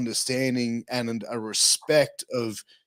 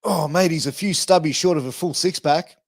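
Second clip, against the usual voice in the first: Aussie slang line; 2 semitones higher, 4 dB louder than usual. Shown as a demonstration. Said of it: "here's another one".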